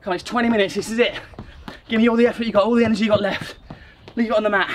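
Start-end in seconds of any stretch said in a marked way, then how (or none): 1.9-4.7 coach shouting encouragement. Real, not acted. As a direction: push them through the last set. Coach pushing the final set.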